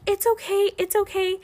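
put-on high, singsong soothing of a child; high-pitched reassurance. Babysitter calming a crying three-year-old, high-pitched reassurance.

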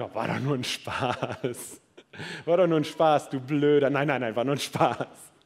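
taunting, then backpedalling; sarcastic. Pretend. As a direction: smirk through the jab "du Blöder". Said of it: "Oder vielleicht wirst du sarkastisch".

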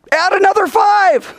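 high, loud, exasperated comeback; emphatic shout. Acted. Teacher answering a what-if, high emphatic shout. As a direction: fire the answer back at full voice.

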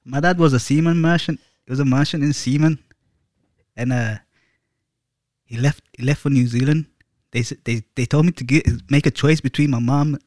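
badly faked Scottish-or-Irish accent; butchered accent. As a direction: attempt a Celtic accent and butcher it. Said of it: "Don't do that accent".

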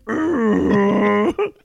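loud, high imitated nervous noise; drawn-out mock nervous groan; Robert. Imitating him at the funeral, nervous noise. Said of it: "he makes the noise".

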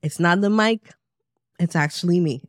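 hoarse from being sick; a raspy, sick voice. Real, not acted. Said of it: "My voice can sound like a penguin".

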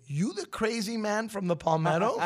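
amused disbelief, laughing as you ask; laughing question. Retold or imitated. Rohan's letter, laughing retold.

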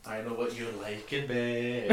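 slow, teasing line with a laugh; mock jealous ex. Voicing the petty part of you, slow and laughing.

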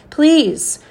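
high, drawn-out plea; a mother's imploring cry; begging. A narrator's reading. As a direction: plead with pitch way up, then falling. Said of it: "I heard my mother beg".

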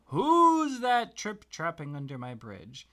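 loud, booming troll challenge. Acted. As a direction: roar it like a grumpy troll guarding his bridge. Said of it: "a troll under that bridge that said".

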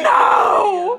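high mock shout of a two-year-old; toddler refusal. Mother imitating her toddler refusing. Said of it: "and she be like".

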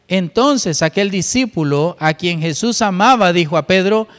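measured, deliberate Bible reading; scripture reading. Acted. Preacher reading John to the church in steady reading voice.

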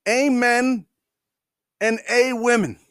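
"Amen and a women" with a hint of pulpit solemnity; mock congressman prayer. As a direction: intone it like a solemn congressman, half mocking. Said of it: "and he goes".

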